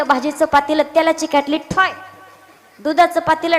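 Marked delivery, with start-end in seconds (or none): 1.6-1.9 short imitated clang of a pot. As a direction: voice the bang of metal. Imitates kettle and pots clanging.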